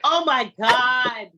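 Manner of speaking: slow, loud astonishment; stunned by the coincidence; amazed. Real, not acted. Shared-name coincidence.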